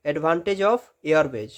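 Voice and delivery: advantage of roadway drawn out word by word; very slow heading read; slow dictation. Shown as a demonstration.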